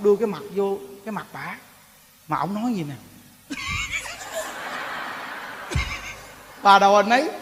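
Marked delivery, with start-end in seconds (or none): 3.5-6.1 breathy airy laugh. Real, not acted.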